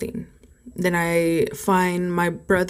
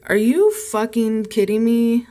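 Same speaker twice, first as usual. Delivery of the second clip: drawn-out, disbelieving retort; stretched-out indignant disbelief; incredulous outrage; 3 semitones higher, 4 dB louder than usual. Retold or imitated. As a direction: retell it in slow, rising disbelief. Retold outraged reply to bad news.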